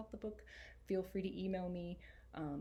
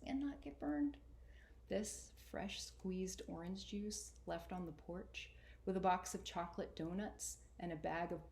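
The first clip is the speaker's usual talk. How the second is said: poem reading. A narrator's reading. Reads a favorite poem.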